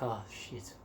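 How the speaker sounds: low, very soft retold curse; deflated swearing. Hitchhiker sent away from the exit, hushed mild dismay. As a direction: drop it low, under the breath.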